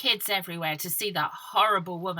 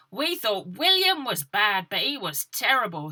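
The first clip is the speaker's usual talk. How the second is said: put-on cheeky girl voice; 3 semitones higher, 6 dB louder than usual. Fingers' quote.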